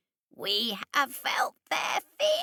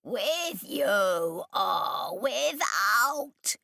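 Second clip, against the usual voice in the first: insisting; 2 semitones higher, much slower than usual. Acted. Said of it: "Ahab insisted".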